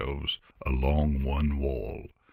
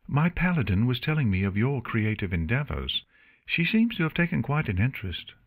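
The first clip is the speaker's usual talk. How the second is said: cool even tone; 6 semitones higher, faster than usual. Acted. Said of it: "spoke in a cool, even tone".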